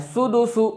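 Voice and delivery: सुदुसु with short closed 'u' vowels; quick rounded u's in सुदुसु; maruf, correct way. Shown as a demonstration. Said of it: "ये सही तरीका है". (सुदुसु मारूफ, बिना खींचे)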